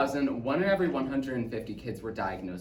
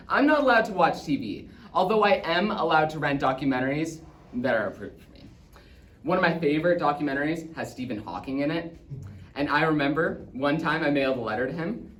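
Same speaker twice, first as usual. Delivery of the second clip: put-on eager boy narrator; 3 semitones higher, 5 dB louder than usual. Autistic child Oscar recounting his favorite documentaries, eager. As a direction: chatter eagerly as a young boy.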